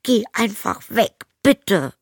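high, loud, slow shout; yelling back. Acted. Zoe shouts back at her stepmother, high and loud. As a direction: shout back with all she has. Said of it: "brüllte Zoe zurück".

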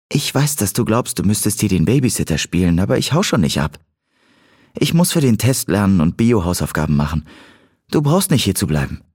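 lightly voiced Cat, reassuring him; a hint of a girl telling him he can go; Cat im Dialog. (leicht angedeutete Mädchenstimme)

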